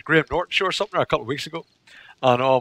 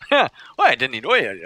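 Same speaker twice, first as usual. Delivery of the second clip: thick mock-Scottish gabble; unintelligible Scottish clansman; 2 semitones lower than usual. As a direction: imitate an incomprehensible Scottish clansman. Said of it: "one of the clan's chief's sons".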